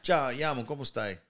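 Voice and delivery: Italian greeting in an Australian accent. Shown as a demonstration. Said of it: "that's an Australian Italian accent".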